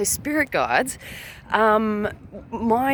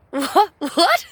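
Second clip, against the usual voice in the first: baffled what; 8 semitones higher, 4 dB louder than usual. Retold or imitated. Baffled reaction to hearing ghost.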